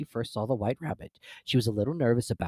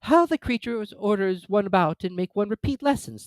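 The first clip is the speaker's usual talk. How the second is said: Alice thinking; 10 semitones higher than usual. A narrator's reading. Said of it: "thought Alice".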